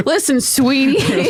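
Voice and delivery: slow, smug patronizing radio man; condescending old broadcaster. Pretend. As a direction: talk down slowly like a cigar-chomping DJ. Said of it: "Let me mansplain broadcasting to the broadcaster".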